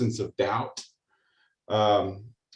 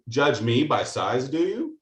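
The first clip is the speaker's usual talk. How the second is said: a lightly voiced Yoda, slow, lifting sharply on the last words. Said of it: "and Yoda goes".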